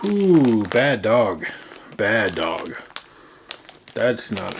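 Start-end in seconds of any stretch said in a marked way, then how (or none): 0.1-2.8 smell reaction. Real, not acted.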